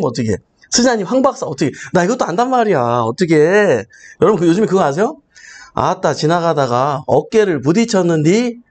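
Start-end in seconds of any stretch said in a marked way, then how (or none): 5.7-8.6 Jeolla dialect. Retold or imitated. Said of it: "뭐라는 줄 알아?".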